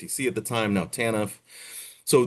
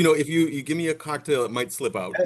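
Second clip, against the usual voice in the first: laughing; 5 semitones higher than usual. Real, not acted. Jokes about a cocktail, laughing.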